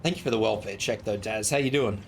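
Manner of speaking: strained, fading voice; losing voice. Real, not acted. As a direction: talk through a voice that's nearly gone. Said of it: "I'm losing my voice today".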